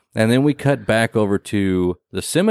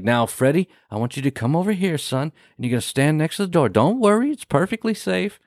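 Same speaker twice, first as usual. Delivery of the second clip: coaxing boss; 5 semitones higher than usual. Retold or imitated. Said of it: "And he's like".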